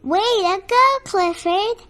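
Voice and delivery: high, loud cheer of encouragement; excited cheer. Acted. Storyteller cheering Clifford on at the sports day, excited. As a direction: cheer him on with a lifted voice.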